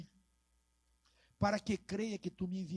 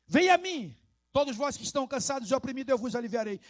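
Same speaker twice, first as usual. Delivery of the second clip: higher opening call, then fast run-through; brisk urgent restatement; 4 semitones higher, 6 dB louder, faster than usual. Acted. Preacher restating the invitation in everyday words, brisk call. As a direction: call out, then rattle the verse off. Same verse repeated in everyday word.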